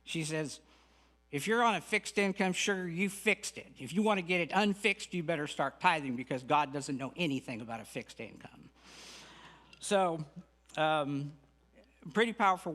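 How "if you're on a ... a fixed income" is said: hint of a Texas Southern accent, calling them sugar. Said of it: "answer it like she does in her very Texas Southern accent".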